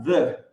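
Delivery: "the" with the tongue between the teeth. Shown as a demonstration. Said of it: "língua entre os dentes e pronunciar". ("the" com a língua entre os dentes)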